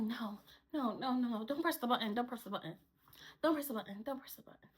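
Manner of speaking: soft, repeated retold pleading; scared coworker. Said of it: "Messy, she's scared".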